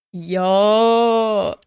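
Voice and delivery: sudden loud hey; loud call. Acted. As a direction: call out to get attention. Character calls out.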